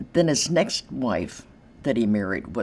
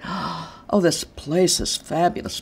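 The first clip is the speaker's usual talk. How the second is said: gushing awe; 5 semitones higher, slower than usual. Retold or imitated. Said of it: "they say, gasps".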